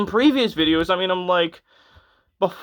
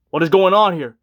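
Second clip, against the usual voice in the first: louder, exasperated second take; louder exasperation; 5 dB louder than usual. Retold or imitated. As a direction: push it out in disbelief. Repeated exasperated question.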